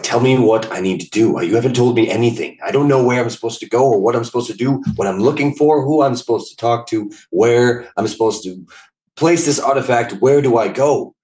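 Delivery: mildly exasperated in-character complaint; getting frustrated. Acted. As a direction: voice a character's mounting frustration, lightly acted. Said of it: "he's kinda getting frustrated".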